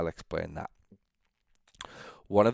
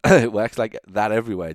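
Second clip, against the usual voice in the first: laughing through the repeat, much louder; 4 semitones higher, 10 dB louder than usual. Real, not acted. Repeating his retort to the listeners, laughing. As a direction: chuckle it out as you repeat it.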